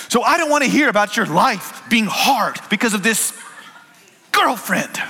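put-on light Sudanese accent, blurted out at first; a Sudanese student bursting out in a Sudanese accent; strong Sudanese accent. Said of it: "blurted it out in his strong accent".

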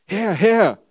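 loud, high panicked cry for help; screaming. Acted. Peter sinking in the storm, crying out to the Lord, loud panicked scream. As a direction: shout it out as if you are going under. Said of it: "schrie er".

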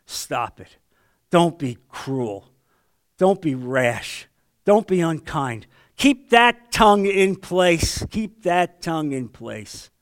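Spirit's rebuke. Pretend. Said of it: "the Holy Spirit goes, pulls a leash".

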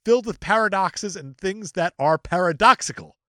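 emphatic, lively reading voice; dramatic review read. Acted. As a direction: read it out with mock importance, climbing at the end. Reads an online review aloud.

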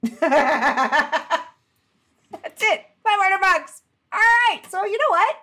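high, squeaky voice through laughter; cracking up. Real, not acted. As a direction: squeeze the words out while really laughing. Cracks up at the tiny fine.

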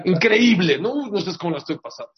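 bitter, high mock-cheer; grieving man answers a tactless visitor sarcastically; sarcastic mourner. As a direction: throw it back with biting sarcasm. Mourner mocking a silly visitor.

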